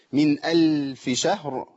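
slow chanted "من ألف شهر", full final ra; heavy ra. Shown as a demonstration. Teacher showing heavy ra, "شهر" recited slowly. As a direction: end "شهر" on a heavy, audible ra. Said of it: "الراء هنا مفخمة".

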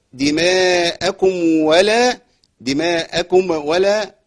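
دماءكم with the mim given a vowel, slow; wrong vowel on the mim. Shown as a demonstration. Teacher demos a student mistake. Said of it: "ما تنفعش".

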